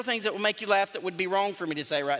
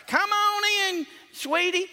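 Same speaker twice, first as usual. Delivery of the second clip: high, slow sugary welcome; sweet old Southern lady; 12 semitones higher, 3 dB louder than usual. Retold or imitated. Pastor voicing the old daughter inviting him in. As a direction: draw it out like a kind grandmother. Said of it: "that's how she talked".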